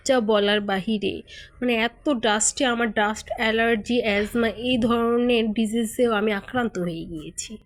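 careful formal standard Bengali instead of village dialect; standard Bengali accent. Shown as a demonstration. Vlogger shows viewers her standard Bengali accent, a touch formal. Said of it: "এখন আমি একটু শুদ্ধ ভাষায় কথা বলি".

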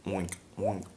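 whispered oink, barely voiced; silent mouthed oink. Shown as a demonstration. Showing the mouth action, whispered oink. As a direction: mouth oink with only breath. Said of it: "you don't wanna say anything".

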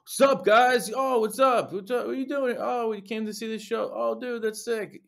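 high, loud and breathless, star-struck greeting; gushing fan meeting. Retold or imitated. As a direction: squeal it like a starstruck fan meeting the band. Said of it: "it was like".

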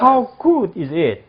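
How good is it? drawn out word by word, falling at the end; deliberate slow teacher model. Shown as a demonstration. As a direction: slowly spell it out for the class. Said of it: "다 같이 한번 따라하기".

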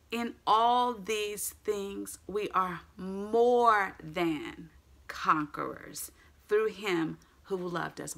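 very slow, drawn-out verse; emphatic scripture. Acted. Preacher repeating the focus verse, slow and emphatic. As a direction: lean hard into each word.

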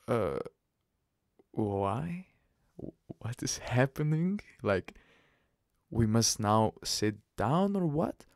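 halting, mildly baffled questions; retold shock. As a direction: act out stunned confusion, with pauses. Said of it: "was a complete shock for me".

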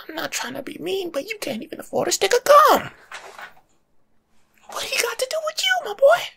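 high, loud disbelief building to a squeal; incredulous rant. Retold or imitated. To a broke man blaming Obama, a shrill incredulous rant. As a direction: tear the conspiracy talk apart in outrage. Ranting back at conspiracy guy.

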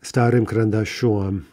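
карандашом with a stressed final -ом; stressed ending. Shown as a demonstration. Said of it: "So we get om there".

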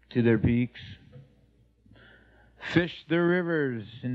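measured spoken-word delivery with long pauses; poetic recitation. Acted. Man recounting his life bonding with Mother Nature, poetic recitation. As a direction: recite it like a personal poem, line by line.

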